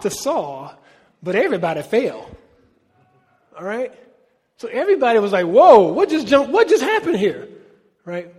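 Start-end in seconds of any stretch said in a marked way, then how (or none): 5.5-7.5 loud, alarmed cry of whoa, much higher and louder; startled crowd. Retold or imitated. Preacher voicing the crowd thrown to the ground, loud startled cry. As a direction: act out the shocked crowd after everyone fell.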